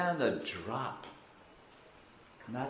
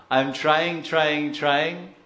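louder, insistent mock complaint; acted crying plea; 2 semitones higher, 5 dB louder, much slower than usual. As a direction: protest your effort like a tearful devotee. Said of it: "he's crying".

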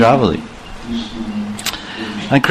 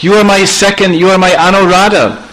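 pleading Krishna; 5 semitones higher than usual. Acted. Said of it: "Krishna became all choked up".

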